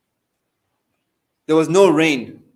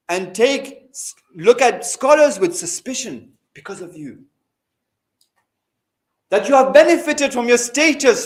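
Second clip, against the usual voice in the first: stern rebuke; 4 semitones higher than usual. Retold or imitated. Imam's letter rebukes a scholar for hiding the truth, stern. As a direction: read out the letter as a weighty admonishment. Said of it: "and a very stern one".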